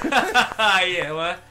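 imitating a weird nervous laugh. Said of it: "That weird nervous laugh".

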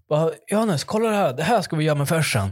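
high, excited quoted text message; excited late-night message. Retold or imitated. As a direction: read the night text like a sudden great idea.

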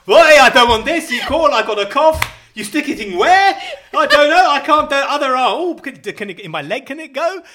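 high, loud, laughing fuss; mock panicky patient. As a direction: whine like a scared patient, giggling.

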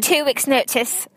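"Two Weeks Notice" said slowly with an English accent. Shown as a demonstration. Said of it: "fais-le avec l'accent anglais".

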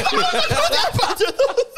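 mock surprised. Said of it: "I was like".

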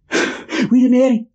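hissed, urgent stage whisper; whisper yelling. Retold or imitated. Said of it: "whisper yells for the witch".

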